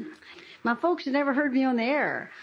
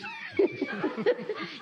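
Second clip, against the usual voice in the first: high burst of laughter; 4 dB quieter than usual. Real, not acted. Laughs at her own joke.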